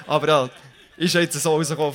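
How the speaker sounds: chuckling through the words; amused, laughing aside. Real, not acted. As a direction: speak while laughing at yourself. Jokes about preaching before teacher.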